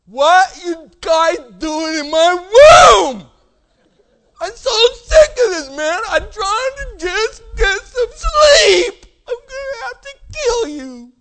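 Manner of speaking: bellowing high-pitched fury on waking; hammed-up furious shouting; enraged roar. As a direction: roar it slowly like a giant woken from sleep. Acts out man woken up raging.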